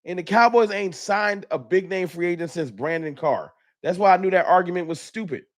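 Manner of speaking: real heated rant; worked-up anger. Real, not acted. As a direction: drive the point home, exasperated. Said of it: "I'm normally not this angry".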